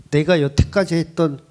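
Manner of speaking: ordinary talk, nothing marked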